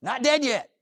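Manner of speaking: high, loud triumphant cry; triumphant exclaim. Real, not acted. Survivor to audience, triumphant and loud. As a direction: announce you survived, rising high and bold. Triumphant catchphrase after surgery.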